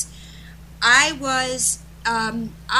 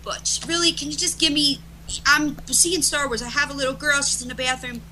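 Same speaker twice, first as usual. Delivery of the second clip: raised pitch, mildly exasperated plea; retold exasperation; 4 semitones higher than usual. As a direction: plead with a friend who called at a bad time. Retold protest to friend on phone.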